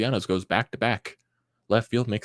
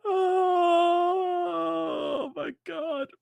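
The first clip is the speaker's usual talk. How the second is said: very high, very slow, cracking wail; crying out in despair; much slower than usual. Real, not acted. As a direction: let it break like a sob. Fan crushed by loss.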